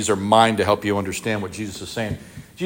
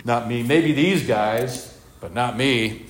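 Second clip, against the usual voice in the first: cocky Peter; slower than usual. Retold or imitated. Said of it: "Peter's like".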